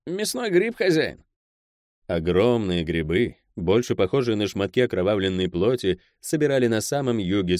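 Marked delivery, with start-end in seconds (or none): 0.1-1.2 high-pitched, surprised report; mild surprise. A narrator's reading. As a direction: announce the find with some astonishment, pitched up. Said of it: "сообщил с некоторым удивлением в голосе".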